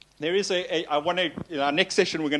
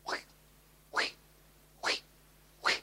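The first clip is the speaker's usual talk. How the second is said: tag; 7 dB quieter, much faster than usual. Retold or imitated. Mimics a worry cycling at night.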